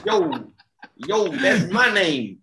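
hammed-up Italian wiseguy accent; bad put-on accent. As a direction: overdo a fake Italian-American accent. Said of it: "smacking the old tin sign that says "No accents".

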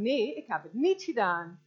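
firm protest with stressed "niet"; insistent denial. Acted. Blamed person answering back, insistent denial. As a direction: push back against the accuser.

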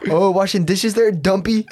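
mock teasing. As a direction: poke fun at a coworker at the sink. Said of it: "and you're like".

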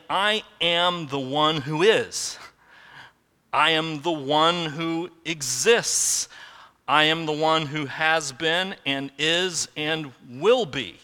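slow, weighty proclamation as God; voicing God. Preacher giving God's words to the congregation, slow and weighty. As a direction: speak slowly as the one who exists. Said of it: "it's like God saying".

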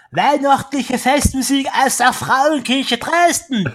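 high, loud pompous announcing; grand announcer. Pretend. Mock-grand reading of program.

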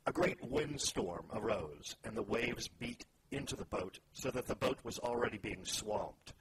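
measured reading aloud with deliberate pauses; solemn storytelling from scripture. Acted. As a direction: read the Bible passage out, phrase by phrase. Reads scripture aloud to open discussion.

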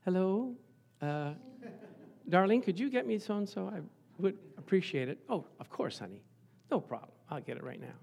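soft, honeyed request to a darling; sweet voice. Shown as a demonstration. Spouse asking a darling a favor in voice number one, sweetly. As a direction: speak softly and sweetly, all obliging. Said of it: "Voice number one is the real sweet voice".

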